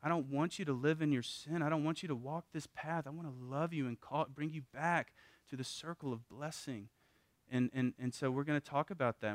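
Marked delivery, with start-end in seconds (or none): 0.0-6.9 tender father. Retold or imitated. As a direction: reassure the child after the spanking, softly. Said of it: "Tell 'em, like".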